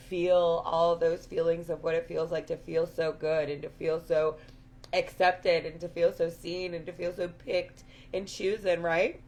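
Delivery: hoarse, raspy throat; talking through a raspy voice. Real, not acted. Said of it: "Sorry about this raspy voice".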